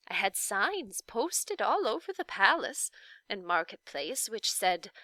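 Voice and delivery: lightly voiced grandmotherly witch; Faintly Macabre, kindly witch. The witch tells her story.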